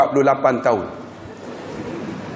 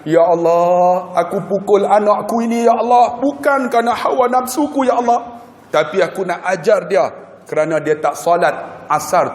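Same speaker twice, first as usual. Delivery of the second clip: pleading prayer; 3 semitones higher than usual. Retold or imitated. Father's prayer retold.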